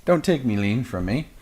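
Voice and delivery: attempted British drifting into Irish; high, pleading mock Irish lilt; Irish-sounding accent. Rapper begs officers to leave his lean, mock Irish. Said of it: "That's more Irish than anything".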